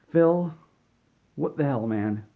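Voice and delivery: loud high call, then exasperated; mock angry publishers. Publishers storming into Phil Spencer's office, mock angry. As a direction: act out an angry group confronting their boss. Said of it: "and they were angry".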